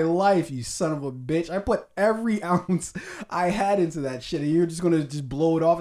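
loud, indignant imitation of an offended director; mock angry rant. As the director scolding a dismissive journalist, mock fury. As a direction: punch it out loud in hammed-up outrage. Acting director's outraged reply.

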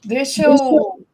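echoing mic feedback; words echo back on the line; echoed phrase repeats. Real, not acted. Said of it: "tá dando eco".

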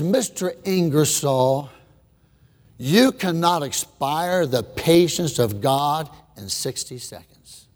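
low, slow, steady reply; calm rebuke. Retold or imitated. Little girl answering the atheist, slow and calm. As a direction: say it simply and firmly.

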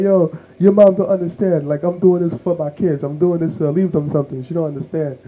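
exasperated dad voice; defensive dad. Retold or imitated.

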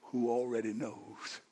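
soft, slow and hushed, drawing them in; almost a whisper; hushed slow preaching. Acted. Quiet opening, hushed.

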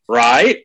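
mocking the rising "Right?"; upward inflection. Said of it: "every time I hear someone go".

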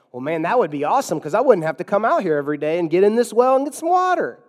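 breezy put-on eagerness; mock enthusiasm. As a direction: lightly imitate someone naively thrilled. Acts out woman missing the point.

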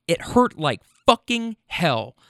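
slow emphatic. Retold or imitated. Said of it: "So that's what I said".

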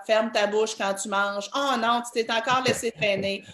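a mild mock of a nagging parent; nagging parent lines. Parent mildly mocking her own nagging. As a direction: rattle off the everyday nags, lightly scolding. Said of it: "que ce soit".

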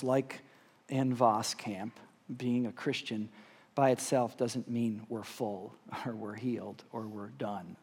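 measured prayer with long pauses, phrases falling away; earnest pastoral prayer; leading prayer. Real, not acted. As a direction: pray aloud for the room, unhurried. Leads closing prayer.

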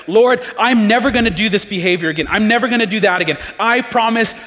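an imitated desperate pledge; pleading promise. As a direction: beg him to believe you, fast and urgent. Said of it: "telling yourself things like".

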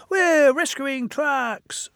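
high whispered squeak. Acted. Ben squeaking to Edward, high and whispered. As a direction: squeak it out breathlessly. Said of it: "squeaked Ben".

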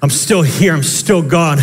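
a touch of steady divine comfort; reassuring Jesus. Retold or imitated. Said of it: "he shows up and he says".

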